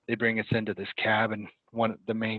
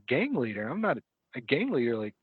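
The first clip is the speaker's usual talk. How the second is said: higher, swooping mock-incredulous protest; 4 semitones higher than usual. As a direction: retell a pleading denial, pitch lifted. Retold protest at an absurd accusation.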